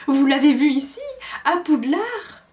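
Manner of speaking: high, loud elf question; desperate for news of master; eager squeaky elf. A narrator's reading. Winky eager.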